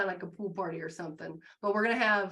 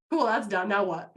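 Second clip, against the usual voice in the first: deadpan shrug; 7 dB louder than usual. Retold or imitated. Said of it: "You'll just be like".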